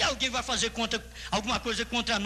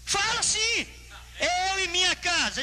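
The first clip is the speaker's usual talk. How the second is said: high, shouted pulpit declaration; full-force preaching command; 10 semitones higher, slower than usual. Real, not acted. Preacher urging congregation to say the verse, shouted preaching. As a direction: shout the verse for the church to claim.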